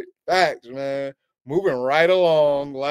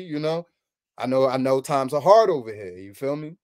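smooth salesman pitch; 2 semitones lower, 3 dB quieter than usual. Pretend. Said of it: "Yo, the sales pitch".

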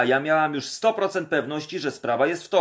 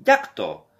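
shocked; 12 semitones higher, 6 dB louder than usual. Retold or imitated. Krzysiek shocked by news.

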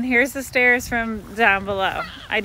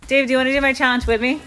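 calling out; 4 semitones higher, 5 dB louder, faster than usual. Real, not acted. Calling to Dave nearby.

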